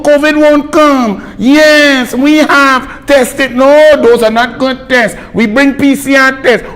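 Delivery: high-pitched mock officialdom; exasperated high mimicry; mocking officials. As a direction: parrot muddled orders in a high voice. Mocks officials' contradicting orders.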